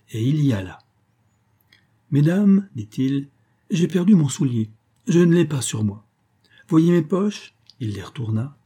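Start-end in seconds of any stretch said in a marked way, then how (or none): 2.1-2.7 loud, high call to the ladies; showman's address. A narrator's reading. Magician opens his trick before the ladies, high showman's address. 3.7-7.5 lightly acted stage magician, pitched up; showman's patter. A narrator's reading. Magician shows the ladies he has lost his shoe, showman's patter.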